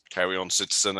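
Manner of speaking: flat robotic droid voice; monotone machine, no emotion. Acted. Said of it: "in a robot voice".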